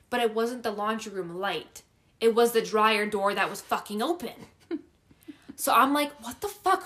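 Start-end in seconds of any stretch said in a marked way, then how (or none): 6.2-6.8 high-pitched re-enacted disbelief; puzzled, indignant reaction; baffled exclamation. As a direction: pitch it up, incredulous. Acts reaction to open dryer.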